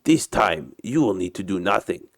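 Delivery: put-on Russian captain's accented English; story character with a put-on Russian accent. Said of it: "uh, my Russian accent".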